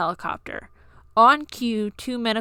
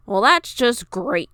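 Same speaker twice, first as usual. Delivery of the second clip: huffed; 3 semitones higher, 5 dB louder, slower than usual. Acted. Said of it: "Fuyuhiko huffed".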